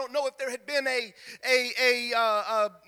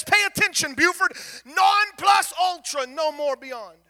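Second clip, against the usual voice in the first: mock devil voice; 3 semitones higher, 3 dB louder than usual.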